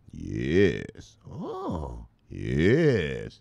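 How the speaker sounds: mock swooning girlfriend. Girlfriend voiced agreeing.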